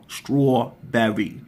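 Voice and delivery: slow "strawberry", each part sounded out; drawn-out strawberry. Shown as a demonstration. Showing viewers the cousin's version, slow careful pronunciation. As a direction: stretch "strawberry" slowly so the straw is heard. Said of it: "You can hear straw".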